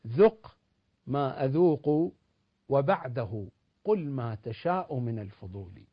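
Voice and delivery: slow, measured verse with emphatic openings; poetry recitation. Acted. Recites verse to close his point. (إلقاء شعري متأنٍّ)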